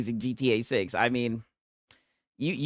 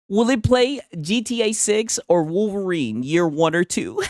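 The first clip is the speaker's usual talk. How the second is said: higher-pitched put-on English accent; attempted English accent; 5 semitones higher than usual. Streamer mimicking his boy's question, attempted English accent. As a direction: badly attempt a South England accent. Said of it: "I don't know what type of accent it is".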